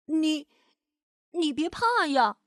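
gentle, hesitant reassurance; comforting. A narrator's reading. Louise comforts the green monster, reassuring. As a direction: soothe a frightened friend. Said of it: "安慰着绿毛怪".

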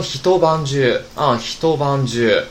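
hitobanju said slowly and deliberately; slow teacher's demonstration of hitobanju; special reading. Shown as a demonstration. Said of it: "它的发音是特殊的啊".

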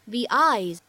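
"The eyes" with "The" said as "thee"; "thee" before a vowel. Shown as a demonstration. Teacher modelling "The eyes" for learners, "The" said as "thee". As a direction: say "thee" leading smoothly into "eyes". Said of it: "而应该读成the".

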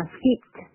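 "skipped" pronounced "skipt". Shown as a demonstration. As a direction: end "skipped" on a crisp unvoiced T. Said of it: "就是读t". (skipped词尾ed读成t)

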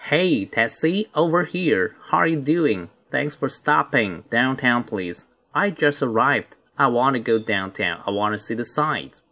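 lively, full-voiced read of the dialogue; fuller reading. Shown as a demonstration. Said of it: "我再比较饱满的读一次哈". (饱满地再读一次)

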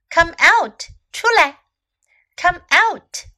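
high, loud call to the sun. Shown as a demonstration. Calling out to the sun.

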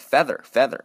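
"feather" with a short front vowel; wrong vowel. Shown as a demonstration. Teacher warns against misreading father, as "feather" with short vowel. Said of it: "读成一个a的音".

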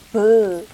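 b repeated as a clear demo; teacher demo sound. Shown as a demonstration. Teacher showing learners the b sound, clear and careful. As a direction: say b，b，b slowly for students. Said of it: "它跟元音呃结合发成".

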